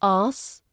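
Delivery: "as" for asks, k dropped, long s; cluster reduced. Shown as a demonstration. Teacher imitating Indian learners' error, k dropped in "as". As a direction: say asks as "ahss". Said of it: "Indian speakers often turn asks into".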